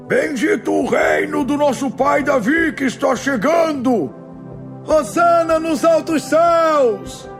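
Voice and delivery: high, drawn-out acclaiming cries; jubilant shouting. A narrator's reading. Crowd hails Jesus entering Jerusalem, high slow exultant shouts. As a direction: hail the king at the top of your range. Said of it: "gente por todo lado gritando".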